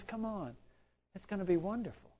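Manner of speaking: gentle encouragement. Retold or imitated. God's gentle invitation, voiced by preacher.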